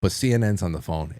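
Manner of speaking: low, halting, straight-faced confession; understated fake seriousness; mock earnest. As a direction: plead sincerity while setting up the prank. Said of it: "I would preface it with".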